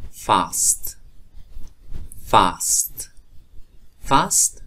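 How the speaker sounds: فاست ending st, not sht, last rising; final st kept. Shown as a demonstration. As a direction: say فاست as fast with plain s-t.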